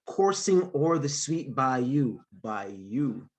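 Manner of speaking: rhythmic, lilting poetry recital; poem reading. Acted. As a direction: read it like spoken word. Reads his poem aloud.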